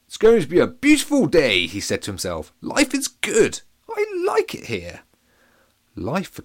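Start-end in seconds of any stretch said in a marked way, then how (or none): 0.1-1.7 high, loud and delighted; cheerful pancake voice. Acted. Captain Pancake beams at the new day, high and cheerful. Pancake speaks to himself happily. 2.6-5.0 cheerful pancake voice. Acted. Captain Pancake beams at the new day, high and cheerful.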